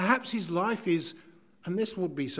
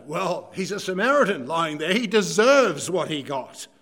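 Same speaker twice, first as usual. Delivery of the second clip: sinister excuse; 6 dB louder than usual. Retold or imitated. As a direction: let the contempt sit on each word. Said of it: "to the sinister".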